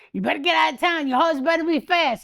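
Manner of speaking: a hint of a Western lawman repeating an order; Wyatt Earp. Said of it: "It sounded like Wyatt Earp".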